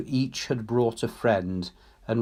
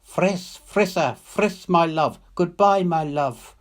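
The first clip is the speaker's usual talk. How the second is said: higher, soaring cry of farewell; Ryder's farewell call, raised and longing; calling from the heavens; 8 semitones higher, 6 dB louder than usual. A narrator's reading. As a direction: let the message ring down from the sky. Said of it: "filled her beyond the bearing of it".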